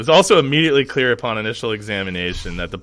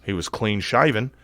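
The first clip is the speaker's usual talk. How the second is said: mild Australian accent. Shown as a demonstration. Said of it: "my shittiest Australian accent".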